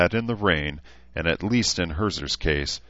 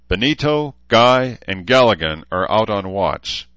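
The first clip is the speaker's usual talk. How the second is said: higher, louder roll call; leader's briefing; 4 semitones higher, 6 dB louder than usual. A narrator's reading. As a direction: announce the men like a commander. Leader giving orders to his band.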